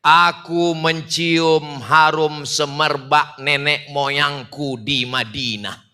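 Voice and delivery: pelan, lebih rendah, meredup di ujung; kutipan pidato pelantikan. Retold or imitated. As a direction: kutip perlahan dengan khidmat. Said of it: "apa kata dia?". (kutipan yang diucapkan lambat)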